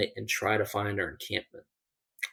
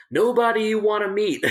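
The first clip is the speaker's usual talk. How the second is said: menacing retort; 11 semitones higher, 5 dB louder than usual. Retold or imitated. Menacing reply to intruder.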